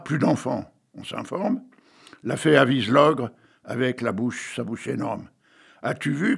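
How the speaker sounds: slow, measured verse recital; old poet reciting Hugo; poem reading. Acted. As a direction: read each line like a storyteller. Reads a Victor Hugo poem.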